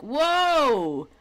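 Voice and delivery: loud, high mock awe; hammed-up wonder breaking into laughter; mock amazement. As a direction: gasp at how Irish he sounds. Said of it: "You're like".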